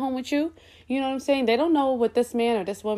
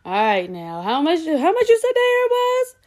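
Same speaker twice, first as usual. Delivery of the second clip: imitating mom; 6 semitones higher than usual. Mom voiced asking the price.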